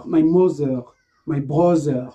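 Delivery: "brother" with a z sound for th; "mother", "brother" said zz, the error; wrong th as z. Shown as a demonstration. Teacher mimics learners saying "brother" wrongly: z sound. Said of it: "No, no, no, no. Stop pronouncing".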